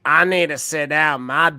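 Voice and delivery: a hint of an old witch, slow and croaky; lightly voiced tired old witch. Old lady at Denny's whining in a witchy voice. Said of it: "Why did she sound like a witch?".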